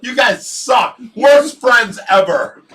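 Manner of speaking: high, loud mock-offended complaint; laughing reproach. Real, not acted. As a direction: scold your friends through laughter. Pranked, scolding friends while laughing.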